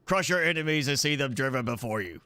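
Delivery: a light hint of Arnie, barely voiced; half-hearted Conan movie quote; Arnie-style quote. Gamer quoting Conan to viewers, a faint Arnie touch. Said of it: "but with more of an Arnie voice to it".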